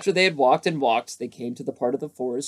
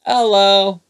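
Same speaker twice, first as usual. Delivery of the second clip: high squeaky hello; 8 semitones higher, 11 dB louder than usual. A narrator's reading. Piglet greets Pooh.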